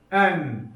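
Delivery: "En" with a short e closed on a still n; reading demo. Shown as a demonstration. Teacher showing the class how to read "En". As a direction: model "En" clearly as one joined syllable. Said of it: "En şeklinde".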